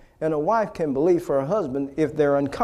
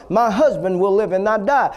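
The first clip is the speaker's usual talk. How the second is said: imitating the wife now declaring it firmly; with authority; 3 semitones higher, 4 dB louder than usual. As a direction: say it like you mean it, full and steady. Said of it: "Say it with authority".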